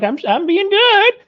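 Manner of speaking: high, slow, sing-song pious voice; mock goody-goody. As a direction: mimic a smug saint, high and slow.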